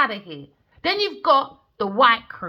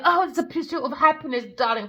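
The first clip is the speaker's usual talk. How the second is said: mock posh voice; 4 semitones higher, faster than usual. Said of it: "these people like to say".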